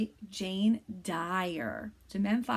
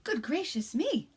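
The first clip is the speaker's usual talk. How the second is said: soft, hushed read-aloud; quiet bedtime reading; 2 semitones higher than usual. Shown as a demonstration. Teacher reads a bedtime story to kindergarteners, hushed. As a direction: lull little ones toward sleep. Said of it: "I'm gonna read this book a little quieter".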